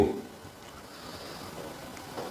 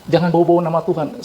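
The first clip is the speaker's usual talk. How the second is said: quick, brushing-off mock retort; dismissive retort; 2 semitones higher, faster than usual. Preacher mimics a scoffer dismissing talk of God, fast and dismissive. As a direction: toss it off fast like waving him away.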